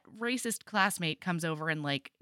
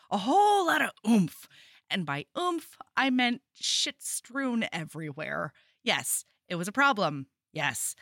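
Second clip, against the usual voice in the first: reading aloud. Acted. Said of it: "Can I read one thing?".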